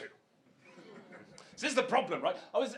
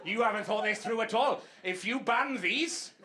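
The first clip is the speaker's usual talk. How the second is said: louder hammed-up know-it-all; mocking businesswoman; 3 dB louder than usual. Comic mocking the lawn seller's objection, louder mock whine. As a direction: mimic her smug objection, louder. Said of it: "You haven't spotted a fucking weakness".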